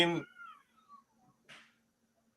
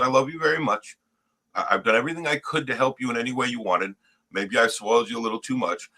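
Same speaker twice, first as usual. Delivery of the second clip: quiet, controlled parent retold; calm; 3 semitones lower, 4 dB quieter than usual. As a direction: lay it out softly without raising your voice. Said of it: "I said it in a calm voice".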